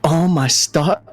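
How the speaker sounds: high, delighted squeal of recognition; overjoyed owl. Acted. Owl spots Silver after years, high and overjoyed. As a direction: gush at an old friend.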